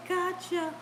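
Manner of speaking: teasing ride lady. Retold or imitated. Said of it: "She looked back and said".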